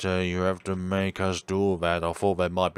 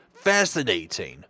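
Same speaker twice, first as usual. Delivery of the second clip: 1 doctor character voice. Acted. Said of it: "I'm gonna drop this voice".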